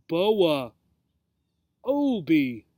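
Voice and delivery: names drawn out with a falling glide; deep, melodious. A narrator's reading. Snake tries out the two names together, melodious voice. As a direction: savor each name like a smooth snake. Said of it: "in that deep, melodious voice of his".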